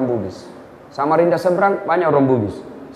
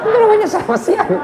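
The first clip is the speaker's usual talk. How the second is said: laughing punchline; faster than usual. Real, not acted.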